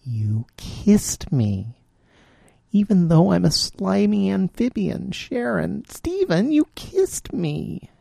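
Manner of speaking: a frog amazed and delighted; jubilant. A narrator's reading. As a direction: marvel at it with joy. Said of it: "his voice was jubilant".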